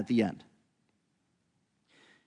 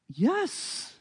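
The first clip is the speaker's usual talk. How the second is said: disguised one-word answer; 13 semitones higher, 6 dB quieter than usual. Retold or imitated.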